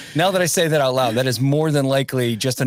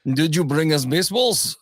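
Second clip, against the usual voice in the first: mock Russian accent; 3 semitones higher than usual. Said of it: "talk in a Russian accent".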